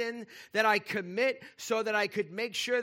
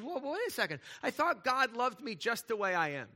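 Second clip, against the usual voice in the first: mock surprise; 4 semitones higher than usual. Voicing a doubting listener.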